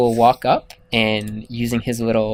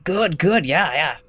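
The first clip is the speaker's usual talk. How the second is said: whisper; 3 semitones higher, slower than usual. Pretend. Whispered aside.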